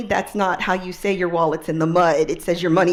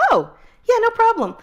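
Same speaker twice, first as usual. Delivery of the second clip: the helpful local; 7 semitones higher than usual. Retold or imitated. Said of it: "And he goes".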